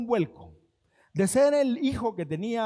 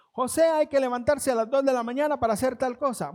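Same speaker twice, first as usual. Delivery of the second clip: orden del amo; 4 semitones higher, 4 dB louder than usual. Acted. Amo dando órdenes a José.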